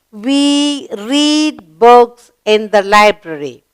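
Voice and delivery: put-on slow, clear model sentence for children; slow model reading. Shown as a demonstration. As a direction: say it slowly and clearly for the class. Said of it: "we completed the sentence".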